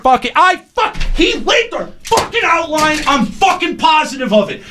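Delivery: angry rant. Acted. Staged on-air argument, storming off.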